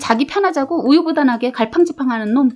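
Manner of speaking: suppressed anger. Acted. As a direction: hold back anger while firing back. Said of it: "울 것만 같아서 먼저 화를 누르고".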